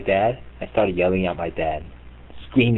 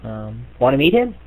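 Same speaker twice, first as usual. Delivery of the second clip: timid daughter; 5 semitones higher than usual. Retold or imitated.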